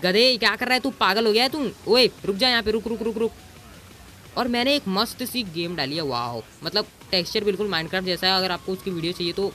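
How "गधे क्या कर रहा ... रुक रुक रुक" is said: yelling at a pig. Real, not acted. Gamer yelling at a stray pig, angry shout. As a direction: tell off the pig in the game.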